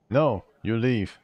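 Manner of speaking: a lightly voiced gruff villager sending you away; gruff npc. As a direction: shoo the stranger off, firm and slow. NPC dialogue read in character.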